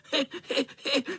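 high mischievous cackle; spiteful cackle. Acted. Spiteful tomcat cackling at the chasing boys. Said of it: "Chechtal se zlomyslný kocour".

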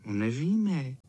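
plain reading voice

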